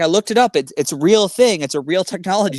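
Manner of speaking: a hint of exasperated disbelief; frustrated. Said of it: "he was, like, frustrated".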